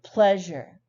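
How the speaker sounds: "Pleasure" with a strong, loud first syllable; stress demo. Shown as a demonstration. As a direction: punch the start of "Pleasure", then let it fall. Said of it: "always have a stressed syllable".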